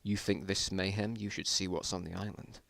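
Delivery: soft, under the breath; murmured. Acted. Scientist murmuring darkly to the survivors. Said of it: "the scientist murmured under his breath".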